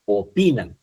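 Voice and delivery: "Opinan" split, with PI stressed. Shown as a demonstration. Teacher showing students the tonic syllable, stress on PI in "Opinan". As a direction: lean on the middle PI in "Opinan". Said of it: "la sílaba tónica es pi".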